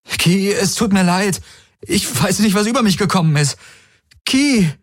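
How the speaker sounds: high, rushed desperate plea; Galen pleading. A narrator's reading. Galen begs the fleeing Kirai to forgive him, rushed. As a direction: beg her to stay, rushing.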